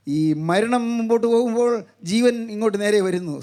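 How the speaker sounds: sustained, declamatory sermon delivery; preacher's level, insistent intonation; preaching. Acted. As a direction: proclaim it steadily to the congregation.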